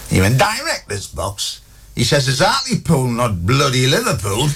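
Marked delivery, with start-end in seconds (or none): 0.4-1.6 high, drawn-out scornful question; incredulous doorman. Acted. Doorman scoffs at guest's claim. 2.3-4.5 scornful doorman. Acted. Doorman scoffs at guest's request.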